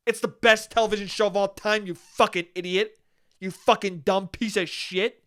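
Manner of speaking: understated contemptuous rant, acted out; scoffing. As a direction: scoff like an offended superfan. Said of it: "to have someone scoff at you".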